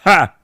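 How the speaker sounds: high-pitched "ha!" burst. Pretend. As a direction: let out one sharp, high "ha". Joking noises after saying Monkey.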